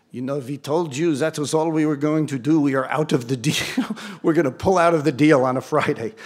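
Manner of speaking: mock Swiss-accented banker; imitated Swiss accent, firmly put. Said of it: "Is that a good Swiss accent?".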